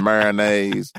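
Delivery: mayonnaise said as "MARE-uh-naze"; own-flavor pronunciation. Real, not acted. Co-host describing a burger, mayonnaise as "mare-uh-naze". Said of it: "putting your own flavor on it".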